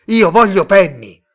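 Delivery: full-voiced furious yell, pitched high; shouting. A narrator's reading. Simon demanding Penny from Mr Tate, shouting. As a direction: shout the demand at the top of your voice. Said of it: "urlò Simon".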